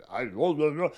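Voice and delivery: lightly imitated ventriloquist; a hint of a thrown voice. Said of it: "like he's like a ventriloquist".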